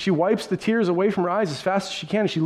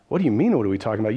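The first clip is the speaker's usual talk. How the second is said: incredulous; 7 semitones lower, much faster than usual. Acted. Cleopas answers stranger incredulously.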